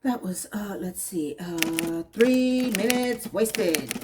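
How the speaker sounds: exasperated. Real, not acted. Reviewer fed up with a dull scene, slow exasperated drawl. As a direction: drag the words out in disgust. Exasperated complaint about wasted time.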